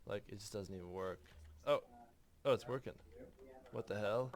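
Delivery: skater surfer voice. Acted. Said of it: "it's too skatery anyway".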